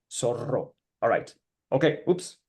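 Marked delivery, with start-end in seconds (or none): 0.1-0.7 Zorro with a trilled rr; rolled R. Shown as a demonstration. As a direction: roll the rr in Zorro. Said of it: "you have to roll them".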